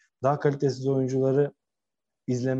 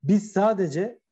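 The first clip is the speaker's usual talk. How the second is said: slow, higher-pitched quoted demand; relayed challenge, drawn out and raised; 5 semitones higher than usual. Retold or imitated. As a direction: press each point slowly, pitched up. Quoting Sergen Yalçın's demand.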